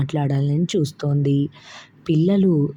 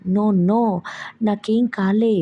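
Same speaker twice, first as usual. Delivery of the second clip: put-on upset child voice; 6 semitones higher than usual. Crying child answers grandma.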